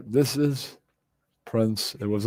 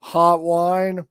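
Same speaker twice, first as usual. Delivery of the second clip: mock hotline greeting; 3 semitones higher, 4 dB louder than usual. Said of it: "I said".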